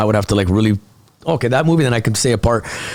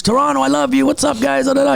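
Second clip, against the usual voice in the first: imitating Joe Koy; 12 semitones higher than usual. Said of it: "he comes on stage".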